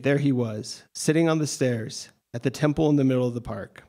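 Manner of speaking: measured literary reading voice; story reading. Acted. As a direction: read your prose aloud to the room. Author reads own short story.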